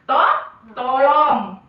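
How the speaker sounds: slow, careful tolong; teacher models a polite please, drawn out; slow model word. Shown as a demonstration. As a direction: say To-, tolong very slowly to the class.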